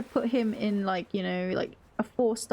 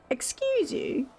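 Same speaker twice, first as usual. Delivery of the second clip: prim lady; 2 semitones higher than usual. Pretend. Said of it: "I'm a refined young lady".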